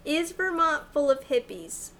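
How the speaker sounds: careful question to a phone, falling at the end; repeating to voice assistant. Real, not acted. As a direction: say it clearly for the phone. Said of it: "Oh, no".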